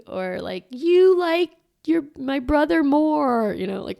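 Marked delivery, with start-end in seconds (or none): 0.7-3.5 put-on much higher, slow sulky child; little kid voice. Mom voicing a jealous child about a brother, in a high sulky kid voice.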